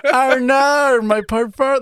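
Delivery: high, loud, hammed-up Australian; mock Australian accent. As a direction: belt out a silly Australian imitation. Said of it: "If I was an Australian interviewing".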